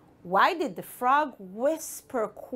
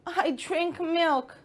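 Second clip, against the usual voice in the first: sleepy cat; 5 semitones higher, slower than usual. Acted. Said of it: "The cat yawned and said".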